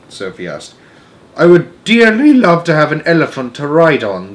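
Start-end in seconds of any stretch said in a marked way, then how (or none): 1.4-4.4 dreamily. A narrator's reading. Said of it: "the B F G said dreamily".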